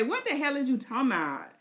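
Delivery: high, brash, defiant dragon voice; the dragon refusing orders; cocky beast brushing off rider. Pretend. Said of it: "Sheep Stealer say".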